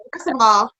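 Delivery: lightly acted setting-straight, point by point; retold firm rebuff. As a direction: put the suitor in place.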